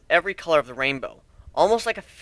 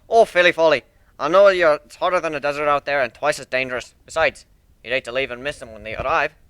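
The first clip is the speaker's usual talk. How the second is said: lightly voiced proud shipbuilder; 6 dB louder than usual. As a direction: show off your ship like a proud craftsman. Steelhorn insists they stay.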